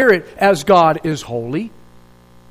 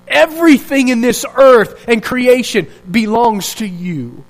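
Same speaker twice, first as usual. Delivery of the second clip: imitated cry of praise. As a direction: proclaim it with weight, drawing out key words. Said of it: "what it was like".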